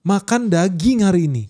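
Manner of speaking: high, slow mock scolding husband voice; angry husband. Rich old man scolding his wife over rendang, high mock anger. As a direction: scold her like a furious old miser. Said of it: "Dia marah guys".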